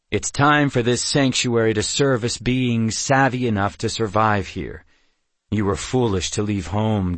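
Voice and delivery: lightly voiced stern, haughty chief; firm, mildly contemptuous pronouncement; scornful warrior leader. Amulon belittles Dalgarel's daughter, scornful.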